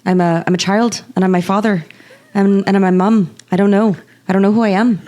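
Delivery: a light hint of a Colin Farrell accent. Cohost signs off the show in a lightly done Colin Farrell accent. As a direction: loosely imitate the Colin Farrell accent signing off. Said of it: "sign us out in Colin Farrell's voice and accent".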